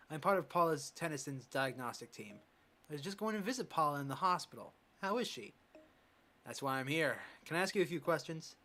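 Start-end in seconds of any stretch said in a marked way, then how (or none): 2.9-5.5 put-on a lightly done East Asian accent for the old coach. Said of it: "I'm giving him this accent, this voice".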